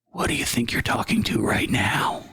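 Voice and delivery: eerie whispered ghost reveal; hushed spooky reveal. Acted. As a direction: breathe it like a ghost in the dark.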